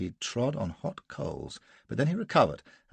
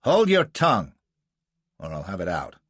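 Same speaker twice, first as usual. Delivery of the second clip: roar; 2 semitones lower, 7 dB louder than usual. A narrator's reading. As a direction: roar the threat at him. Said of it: "roars Gardner".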